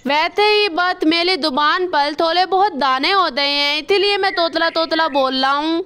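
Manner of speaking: lisped, "अथा दो तल" for "अच्छा तो सर"; lisping crow. Acted. Kalu crow to the doctor, lisping after the surgery. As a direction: say "थाता" with a childlike lisp. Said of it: "तुम तोतले क्यों बोल रहे हो?".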